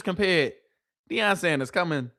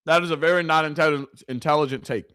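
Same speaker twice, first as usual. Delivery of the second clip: polite rephrase. Real, not acted. S0 softens his insult of Acho, careful polite rephrase. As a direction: choose the kind word on purpose. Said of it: "Let me say that. That's better, right?".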